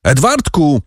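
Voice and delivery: desperate calls, pitched high; calling the boy's name in panic; shouting. A narrator's reading. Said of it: "krzycząc". (rozpaczliwe wołanie, podniesionym głosem)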